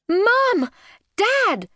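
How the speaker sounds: high, loud call through the house; yell. A narrator's reading. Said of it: "she yelled as she ran".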